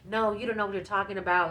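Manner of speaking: mock back-talk, quick; quick retold attitude; giving attitude. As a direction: retell her sassy backchat to the driver. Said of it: "she's giving him attitude".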